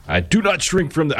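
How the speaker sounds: put-on half-hearted Massachusetts accent, pitched high; abandoned try at a Massachusetts accent; Kennedy Massachusetts accent. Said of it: "I can't do a, do a Massachusetts accent".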